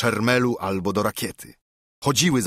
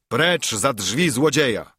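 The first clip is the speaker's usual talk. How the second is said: imitated shout; 3 semitones higher than usual. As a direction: quote an accuser's cry, half-raised voice. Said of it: "krzyknął". (naśladowany okrzyk)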